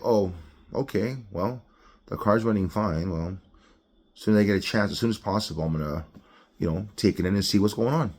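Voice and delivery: low-key, soft, unbothered musing; unpanicked. Acted. Driver shrugs off check engine light, unpanicked. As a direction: talk it through quietly, no alarm. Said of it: "No need to panic, no need to flip out".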